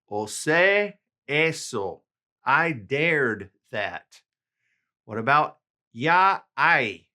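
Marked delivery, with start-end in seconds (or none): 0.1-2.0 slow model phrase. Shown as a demonstration. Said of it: "repeated model for learners".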